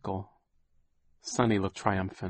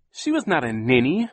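put-on higher, louder boy protesting; indignant boy defending her; Klaus crying out; 6 semitones higher, 6 dB louder than usual. A narrator's reading. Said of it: "Klaus cried".

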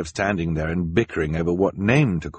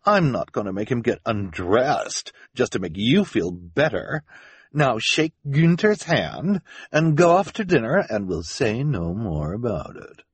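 high impatient scolding, settling as it ends; 5 semitones higher than usual. Acted. Esme dismisses the children's accusation, impatient. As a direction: brush the objection aside impatiently. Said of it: "Esme said impatiently".

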